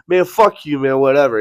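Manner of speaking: loud, high mock angry yell; retold yelling. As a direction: yell it like the fuming rival, imitating him. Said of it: "He starts yelling at me".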